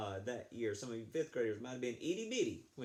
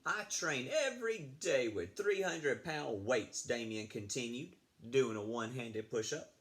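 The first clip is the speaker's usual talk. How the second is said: put-on lively read-aloud for children; storybook reading. Teacher reading a story to fifth graders, lively read-aloud. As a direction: read the tale to the class.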